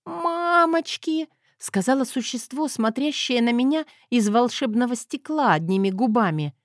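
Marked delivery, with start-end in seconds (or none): 0.0-1.3 high, slow, drawn-out strained wail; pitiful hoarse wheeze. A narrator's reading. Woman staring at her own face in the mirror, wheezing pitifully. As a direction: squeak it out pitifully, voice failing. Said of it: "засипела жалостно и надрывно".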